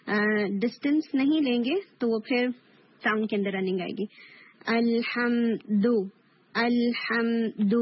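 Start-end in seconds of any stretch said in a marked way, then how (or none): 4.7-7.7 الحمد in slow recitation, d released without air; slow, held الحمد with a firm clean 'du'; one strong hit. Shown as a demonstration. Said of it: "ایک strong ہٹ کی sound ہے".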